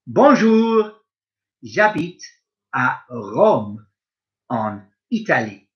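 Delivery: a lightly voiced Italian speaker, slow and clear; Italian speaker role. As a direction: play someone from Rome, lightly. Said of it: "I'm gonna play the part of various other people".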